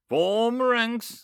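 loud, high battle order; the leader shouting orders to his army, loud; shouted command. A narrator's reading. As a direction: bark it to the troops. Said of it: "I shout to our army".

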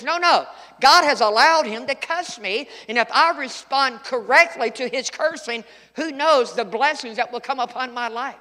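earnest David. Acted. David voiced forbidding revenge.

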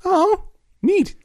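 squeaky mock enthusiasm; mock delight. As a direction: fake cheerful surprise. Mock delight at odd word.

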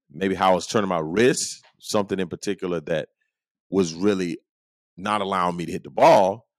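usual speaking voice

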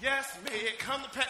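low, even, rhythmic recitation; repeated litany. Shown as a demonstration. Preacher reciting what amen means, steady litany. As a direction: recite each phrase evenly like a litany.

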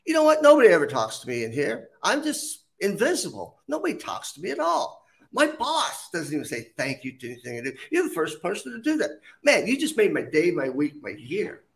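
a worker touched to be thanked, voice lifting high; grateful restroom attendant. Retold or imitated. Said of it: "stood up straight and said".

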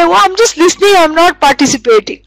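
high, innocent mock excuse; defensive excuse. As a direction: brush it off like it's nothing. Excuse for listening to gossip.

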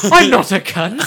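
overacted death scene. Mock dying speech.

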